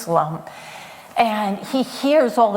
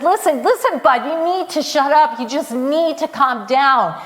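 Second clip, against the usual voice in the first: rebuking; 4 semitones higher than usual. Acted. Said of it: "they were rebuking him".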